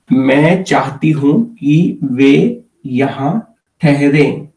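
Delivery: हूँ said with a clearly nasal vowel; careful Hindi model sentence, nasal हूँ; nasalized sound. Shown as a demonstration. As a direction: let the हूँ ring through the nose. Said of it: "with the nasalized sound".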